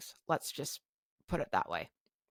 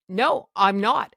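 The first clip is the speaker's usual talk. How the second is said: slow, louder, higher defiance; flat refusal; 4 semitones higher, 7 dB louder, slower than usual. Retold or imitated. Patient refusing the worker's order, slow and defiant. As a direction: dig your heels in.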